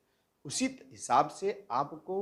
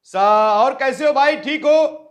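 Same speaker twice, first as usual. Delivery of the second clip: much higher and much louder, near a shout; high sa pitch; 8 semitones higher, 12 dB louder, slower than usual. Shown as a demonstration. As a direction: speak up on the high sa. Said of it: "विभिन्न स्वरों पर जोर देकर बोलना". (ऊँचे सा के सुर पर ज़ोर से बोलना)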